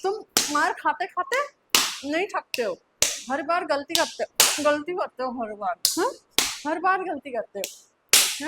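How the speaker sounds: loud, fed-up berating; exasperated scolding. Acted. Teacher tired of pupil's repeated mistakes, loud exasperated scolding. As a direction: hammer the reproach home loudly.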